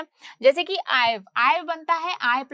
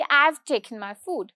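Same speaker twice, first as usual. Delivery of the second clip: casual; much slower than usual. Shown as a demonstration. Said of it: "मतलब मैंने बहुत ही casually बोला".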